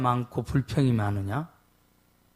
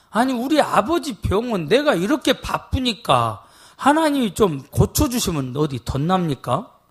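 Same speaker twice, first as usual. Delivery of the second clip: complaining to God; 6 semitones higher than usual. Retold or imitated. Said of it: "불평 아닌 불평이 나와".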